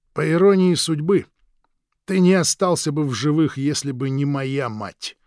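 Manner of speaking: twist the knife with irony; sneering brother. Acted. Krik's sneering voice.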